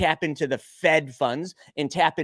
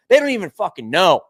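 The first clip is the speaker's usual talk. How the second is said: angry; 6 dB louder than usual. Real, not acted. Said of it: "I'm just on fire today".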